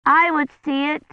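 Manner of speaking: put-on high little girl asking; a small child demanding to see; child's voice. A narrator's reading. Child Agnes voiced in story.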